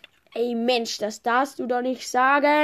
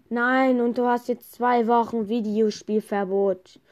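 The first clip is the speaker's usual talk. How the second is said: stern father; 5 dB louder than usual. Pretend. Father punishes child.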